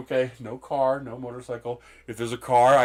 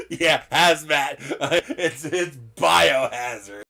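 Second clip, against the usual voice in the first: laughing joke; 2 semitones higher, 5 dB louder, slower than usual. Real, not acted. Laughing joke about napkins.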